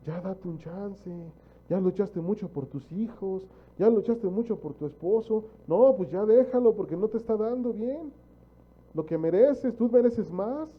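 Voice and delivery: whisper-turned-push of a tempting voice; devil's flattery. Retold or imitated. Preacher voicing the devil flattering a tired wife, coaxing. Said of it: "es el diablo hablándote al oído".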